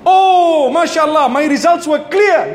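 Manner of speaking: a cured man thrilled at his results; delighted relief. Acted.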